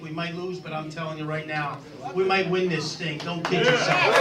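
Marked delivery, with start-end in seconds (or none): 2.1-4.2 rousing shout. Real, not acted. Rallying the crowd.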